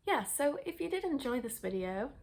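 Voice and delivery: out of breath, rushing the outro. Real, not acted. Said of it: "I'm so out of breath".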